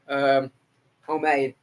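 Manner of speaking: chewing between words; eating chicken quesadillas. Real, not acted. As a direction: mouth full of food. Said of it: "I just got chicken quesadillas".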